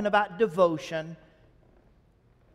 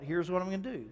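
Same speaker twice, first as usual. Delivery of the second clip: quiet repeat; 7 dB quieter, faster than usual. Shown as a demonstration. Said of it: "I just add that little thought".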